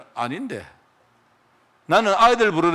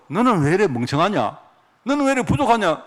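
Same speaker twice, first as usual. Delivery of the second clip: mock scolding; 2 semitones higher than usual. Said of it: "하나님 그러시겠습니까?".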